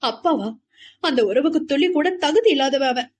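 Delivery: bitter, scornful echo; contemptuous of the father. A narrator's reading. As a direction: spit the word back with a bitter smile. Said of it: "கசப்பாக புன்னகைத்தாள்".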